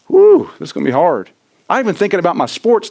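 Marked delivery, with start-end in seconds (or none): 0.1-1.3 daunted whew. Retold or imitated. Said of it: "I'm that guy".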